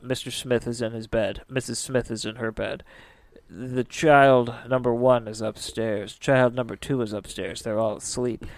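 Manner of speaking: hushed, calm murmur of someone outside; soft eerie murmur; speaking softly. Retold or imitated. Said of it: "he hears a man speaking softly".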